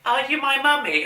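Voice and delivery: put-on high, eerie child voice; gas mask child. Quoting the Empty Child to a friend, high and eerie. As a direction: ask it like the creepy gas mask boy.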